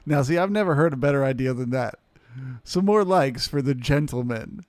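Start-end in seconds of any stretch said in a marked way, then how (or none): 2.6-4.7 louder, upbeat call for likes; rally the chat for likes; hyped shout-out. Acted. Streamer asks chat for likes for Charles, loud and upbeat. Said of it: "Yes, please".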